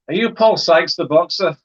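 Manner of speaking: pitched well up, retold eager question; awed youngster's question. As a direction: imitate your younger self asking a big star. Retelling his childhood question to boxer.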